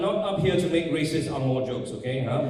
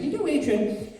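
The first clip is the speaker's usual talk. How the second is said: higher, slow, careful director voice; English director; 4 semitones higher, slower than usual. Retold or imitated. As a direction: break the note gently, pausing before the last word. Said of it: "director pulled me aside and said".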